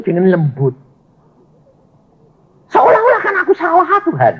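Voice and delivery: whiny, half-joking complaint to God; mock protest. The pastor protests to God he was made to look wrong, mock whining. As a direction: grumble at God with a wounded sulk. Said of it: "Protes model saya".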